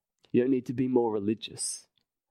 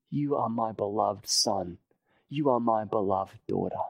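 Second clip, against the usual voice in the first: tender voice of God; 3 semitones lower than usual. Retold or imitated. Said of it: "that you might hear the voice".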